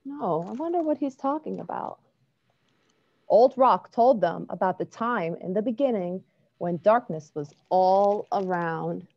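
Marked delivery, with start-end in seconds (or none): 3.3-9.1 gentle storybook narration; reading to children. A narrator's reading. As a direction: read it like bedtime story. Reads a picture book aloud.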